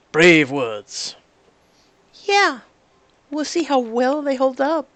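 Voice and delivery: loud, sneering villain taunt; menacing villain. Acted. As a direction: taunt them like a gloating villain.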